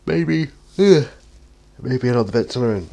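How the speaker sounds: real yawn, pitch and volume jump up. Real, not acted. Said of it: "Sorry, I, I yawn".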